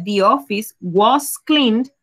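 spaced out words; teacher modelling the past tense; slow example sentence. Shown as a demonstration. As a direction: read the example slowly. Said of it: "sería".

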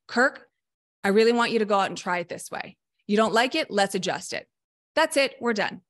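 brisk demo of a no-nonsense coach talking to a player; direct, blunt coach. Shown as a demonstration. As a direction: lay it out bluntly, no cushioning. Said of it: "that's not how I would talk".

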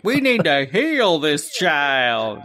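slow, solemn healing proclamation; solemn preacher. Retold or imitated. Preacher grabs his head to heal him, slow and solemn. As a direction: lay hands on him and intone. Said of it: "was all like".

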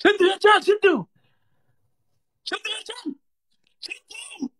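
high rallying shout; calling out. Real, not acted. Rallying teammates in a game.

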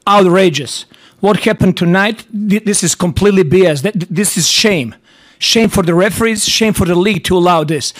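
venting fury at the refs. Real, not acted. Coach furious at referees postgame.

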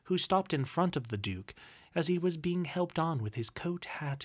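ordinary delivery, nothing marked

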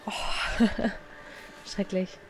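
whispered while hiding; breathy whisper with a laugh. Real, not acted. Hiding from the monster.

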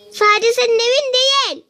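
indignant doll. Acted. Doll quarrel over the house.

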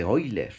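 Euler said as "OI-ler"; pronunciación de Euler. Shown as a demonstration. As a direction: say Euler with an opening "oy" sound. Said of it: "Así se pronuncia". (Euler pronunciado «óiler»)

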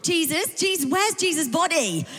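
mildly frantic, rising questions; hammed-up mild freak-out. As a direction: act out a touch of panicked disbelief. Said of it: "Mary at the tomb is freaking out".

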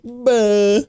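high-pitched mimicked "bah"; imitated bah sound. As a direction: imitate the noise it makes with a bah. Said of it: "Just the sound it makes".

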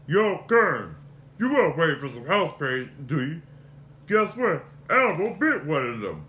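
loud, brash Muppet Clifford voice; lightly voiced street-wise puppet; Clifford impression. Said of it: "Starting with Clifford".

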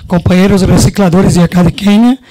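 Spanish with a Brazilian Portuguese accent; a Brazilian speaking Spanish loosely; Portuñol. Real, not acted. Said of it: "vou falar em portunhol".

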